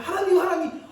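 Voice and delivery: 하나님, 하나님 called out high and loud with a laugh in it; protesting cry. Acted. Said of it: "그러자 하박국이 따집니다".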